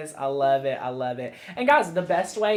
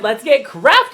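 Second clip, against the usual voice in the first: louder, higher excited catchphrase; quoting the boy; 9 semitones higher, 13 dB louder than usual. Retold or imitated. Mom quotes Beckett's catchphrase, mock excited. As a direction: bounce it out like the little boy did. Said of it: "He said".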